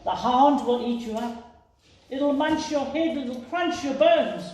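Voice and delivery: family warning Small about the hound; fearful warning. Acted. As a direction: warn her in horror. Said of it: "gasped her family".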